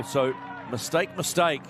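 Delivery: loud, rising shout of mistake; excited shouting. Real, not acted. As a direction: blurt it out, worked up. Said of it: "Need to calm down, mate".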